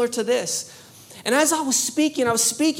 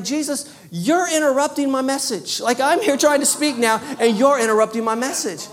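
mock frustration; 4 dB louder than usual. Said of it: "I'm getting frustrated".

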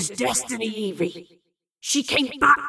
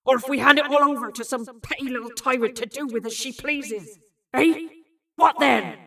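raised, goading demand; heated challenge; 3 semitones higher, 4 dB louder than usual. A narrator's reading. Bill demands answers from Evie, heated. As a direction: push the questions harder to the end.

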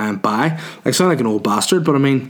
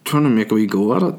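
said through clenched teeth; faster than usual. Real, not acted. Comic talking to listeners about local acts, through teeth. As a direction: squeeze the words out through the teeth. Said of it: "why I said it through teeth".

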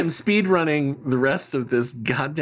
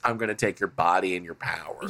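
low, softer menacing villain voice; sinister Apocalypse; 10 semitones lower, 6 dB quieter than usual. Retold or imitated. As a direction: mutter the real evil plan. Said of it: "but what he means is".

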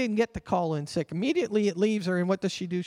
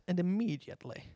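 English accent; 7 dB quieter than usual. Shown as a demonstration. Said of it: "I'd like to say it with an English accent".

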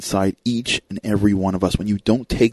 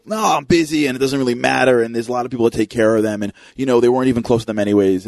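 quick, brush-off rattle; dismissive excuses; 2 semitones higher, faster than usual. Acted. Arguing with the inner voice about visiting, mildly dismissive and rushed. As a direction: reel off excuses in a hurry.

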